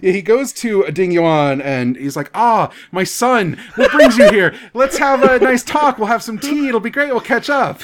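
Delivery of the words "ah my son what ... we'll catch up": higher-pitched, hammed-up doting dad; effusive fatherly welcome. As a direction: gush like a delighted host, mockingly. Father greets his son in retelling.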